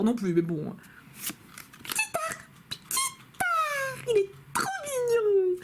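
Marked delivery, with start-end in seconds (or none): 1.8-5.6 tiny, very high squeaky cooing; cute creature voice. Acted. Vlogger cooing over a cute card, squeaky creature voice. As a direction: squeak it, then gush adoringly.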